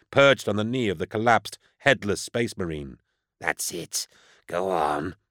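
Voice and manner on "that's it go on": lower, softer coaxing; softer, lower sinister urging; demon child coaxing. A narrator's reading. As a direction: ease him toward the trigger.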